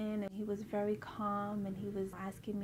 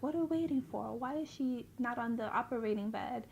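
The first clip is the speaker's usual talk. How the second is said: upset surgeon; 2 semitones higher, faster than usual. Retold or imitated. Surgeon questioning staff about the waiting patient, mildly upset. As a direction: imitate a surgeon annoyed at the delay. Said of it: "He was upset".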